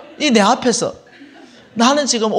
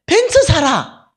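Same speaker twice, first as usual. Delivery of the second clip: much higher, louder, each word spelled out slowly; slow emphatic command; 8 semitones higher, 7 dB louder, slower than usual. Retold or imitated. Telling the disciple on the phone to buy, commanding. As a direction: order it firmly and slowly.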